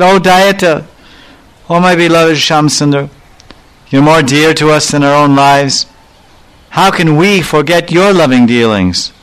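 mildly imploring; humble devotion. Retold or imitated. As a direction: retell a humble, loving appeal. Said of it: "wave arose in her heart of dainya, of humility".

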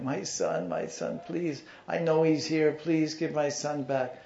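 high-pitched tearful pleading, acted; imitated crying mother. Mother begging guru for her son, acted crying. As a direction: plead in a mock sob, rising high and drawing out the please. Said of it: "crying, crying".

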